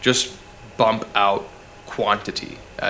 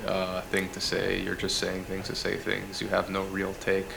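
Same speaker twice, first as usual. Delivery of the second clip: softer, dull monotone drone; 6 dB quieter than usual. Shown as a demonstration. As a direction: talk like a bored presenter with no take. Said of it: "in a very monotone voice like this".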